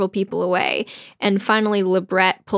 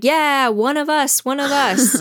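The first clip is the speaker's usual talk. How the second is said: pitched-up mock chant; cheering cadets; 5 semitones higher than usual. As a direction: chant it like a delighted gang. Cadets chorus their approval.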